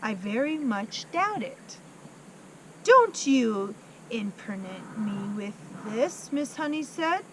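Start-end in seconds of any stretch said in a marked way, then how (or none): 2.8-6.3 a hint of a stern headmistress, slow and a bit louder; Trunchbull snapping. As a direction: snap it out, lightly voiced bully. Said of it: "the Trunchbull snapped".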